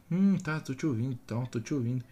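distracted listener. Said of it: "a pessoa fica assim".

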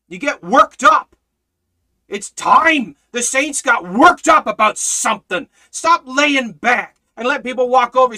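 loud, rising, hammered exhortation; fiery preaching. Real, not acted. Preacher urging the saints to stop lying back, fiery and loud. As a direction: rouse the church to get worked up.

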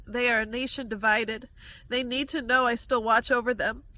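steady, measured word of guidance; prophecy read to the viewer; prophetic instruction. Acted. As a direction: instruct her calmly with authority. Delivers a received word.

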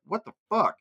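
high, incredulous yelp at the stats; a fan's sudden what-the-hell reaction; mock disbelief. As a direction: act stunned by how bad they play.

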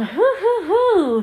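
high, loud giddy hoots; excited hooting laugh. Real, not acted. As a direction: whoop with glee. Laughing excitedly at new film.

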